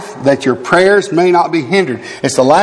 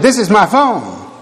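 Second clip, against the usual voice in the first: stern rebuke; 3 semitones higher than usual. Retold or imitated. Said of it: "And I said".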